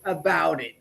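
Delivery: slow, stern mock warning. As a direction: warn him off, half joking. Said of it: "And I'm like".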